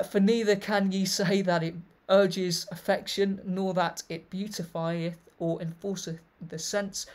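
put-on loud, declaiming read of an old text; formal reading. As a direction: read it out like a proclamation. Reads an old text aloud.

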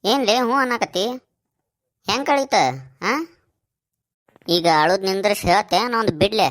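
high, loud furious yelling; angry shouting. Acted. Brother yells at his crying sister over the necklace, furious shout. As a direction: bark at her to stop crying. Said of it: "ಸುಮ್ರು, ಸುಮ್ರು".

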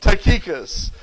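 Tychicus said with a rounded first vowel, stressed on KEE; accented pronunciation. Shown as a demonstration. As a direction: demonstrate Tychicus as tuh-KEE-kus. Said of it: "you'll pronounce it right".

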